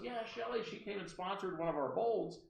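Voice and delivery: put-on rambling high-pitched caller's accent; Barbara Delano. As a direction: mimic her accent as she fishes for a name. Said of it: "I have to use her accent".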